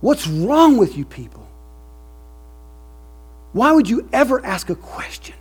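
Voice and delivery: loud, high indignant outburst; indignant yell. Retold or imitated. Preacher voicing Sproul rebuking the crowd, loud and indignant. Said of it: "And he said".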